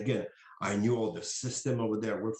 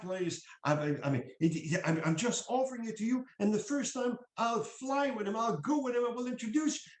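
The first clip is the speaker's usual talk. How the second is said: higher-pitched voice pitching to colleagues; higher, insistent imitation of a pitch; acted sales pitch; 7 semitones higher than usual. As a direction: re-enact a persuasive call, voice raised in pitch. Acted sales call to wary colleagues.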